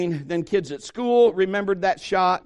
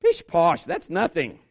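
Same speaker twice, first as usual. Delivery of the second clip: dismissive scoff. Retold or imitated. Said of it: "would be like".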